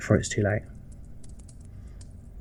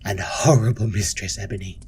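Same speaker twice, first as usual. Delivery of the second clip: stern matron, hushed. Acted. Matron explains her cruelty to Ebony, hushed and stern.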